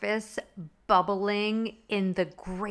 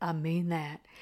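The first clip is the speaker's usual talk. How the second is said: voice dropped very deep and low; 4 semitones lower, 4 dB quieter than usual. Retelling a flirty line from the show: imitating Blanche's deep voice. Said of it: "her voice gets real deep and she goes".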